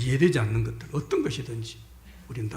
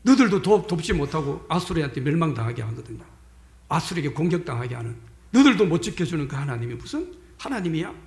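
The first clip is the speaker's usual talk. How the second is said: mocking taunt. Enemy general scoffing that their God cannot protect them, mocking taunt. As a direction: throw out a scornful challenge. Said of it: "막 조롱하는 말씀이 있습니다".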